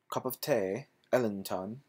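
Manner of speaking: put-on playful British accent on cup of tea; mock British accent. Vlogger practising a British accent, playful. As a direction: ham up a British accent for the joke. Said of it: "British accent".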